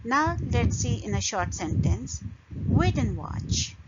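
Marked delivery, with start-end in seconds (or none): 2.7-3.8 "wait and watch" with strong "wait", reduced "and"; stress on key words. Shown as a demonstration. Teacher showing sentence stress, "wait and watch" with weak "and". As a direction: punch "wait" and "watch", skim over "and". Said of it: "we don't stress on and".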